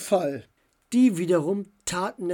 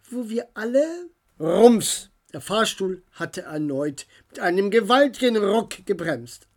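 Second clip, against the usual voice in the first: higher, louder Dora, exasperated; annoyed girl; 5 semitones higher, 6 dB louder than usual. A narrator's reading. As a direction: scold the clumsy giants. Dora speaks, annoyed at giants.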